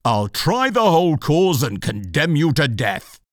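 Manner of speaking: menacing cur; dog voice. A narrator's reading. Fury the dog.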